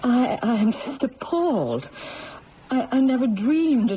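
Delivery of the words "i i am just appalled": appalled, with a catch of tears; words breaking into a sob; crying. Acted. Mother horrified by daughter's visions.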